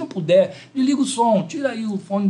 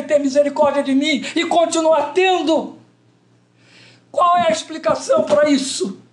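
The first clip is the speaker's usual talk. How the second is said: higher-pitched preaching with rhetorical questions; impassioned preaching; 7 semitones higher than usual. Real, not acted. Preacher marvels at God's mercy toward himself, impassioned preaching. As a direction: press each question on the congregation, pitch raised.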